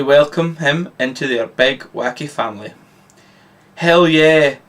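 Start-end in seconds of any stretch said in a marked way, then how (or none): 3.8-4.6 mild bark. Acted. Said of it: "barks the Doctor".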